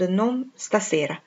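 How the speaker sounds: very slow, falling on non, like an automaton; slow mechanical repeat. Acted. Saint John repeats his refusal to Rosamond, slow and mechanical. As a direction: let the refusal sink down slowly. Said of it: "parlava come un automa".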